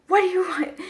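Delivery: high, loud irritated snap; hammed-up fed-up teacher barking at the kid; mock annoyed teacher. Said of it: "super pissed".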